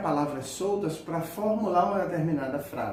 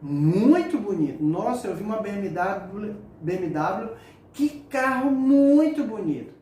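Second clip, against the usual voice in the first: exaggerated admiration; 4 dB louder than usual. Shown as a demonstration. Teacher acting out awe at a BMW for students, exaggerated excitement. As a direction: rave about the BMW, building up to the last muito bonito. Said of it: "é uma expressão exagerada".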